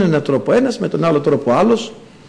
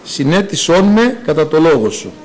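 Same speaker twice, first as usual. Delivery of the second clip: psalm reading. Acted. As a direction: read the psalm like a prayer. Reads psalm verses. (ψαλμική ανάγνωση)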